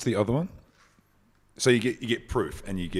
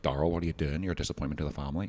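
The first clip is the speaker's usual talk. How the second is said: Northern Irish accent, quick disapproving finish; 3 semitones lower, 4 dB quieter, faster than usual. Shown as a demonstration. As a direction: put on a Northern Irish telling-off. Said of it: "sounded good in Northern Irish accent".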